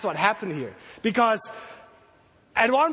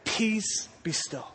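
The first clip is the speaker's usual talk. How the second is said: calm rebuke; 6 dB quieter, slower than usual. Retold or imitated. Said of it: "he rebuked the storm".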